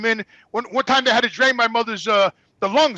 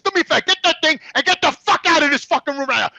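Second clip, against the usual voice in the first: higher, angry order to get out; retold angry yelling; 5 semitones higher than usual. Son ordering the nurse out of mother's room, angry. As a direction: re-enact throwing someone out. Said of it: "I'm yelling now".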